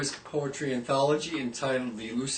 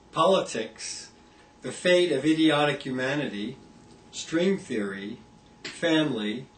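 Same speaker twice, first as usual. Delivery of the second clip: deadpan list, each item set apart by a pause; comic poem recitation. Acted. Poet reads a comic poem of worries, deadpan list recitation. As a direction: read out each item evenly, as a separate entry.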